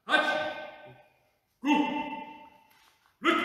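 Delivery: calling out each count in Japanese; sharp rising Japanese count calls; counting aloud in Japanese. Acted. Counting plank reps in Japanese.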